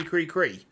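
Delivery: chirpy bird call; bird sounds. Acted. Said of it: "making strange bird sounds".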